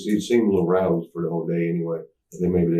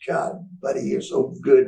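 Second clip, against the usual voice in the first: fawning gush; 7 semitones higher than usual. Retold or imitated. Roddy gushing over Sean.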